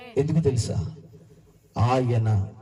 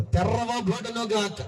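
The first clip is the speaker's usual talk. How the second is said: slow call; 8 semitones higher, much slower than usual. Shown as a demonstration. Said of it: "ఆ మాట తిరగకపోతే చెప్పండి".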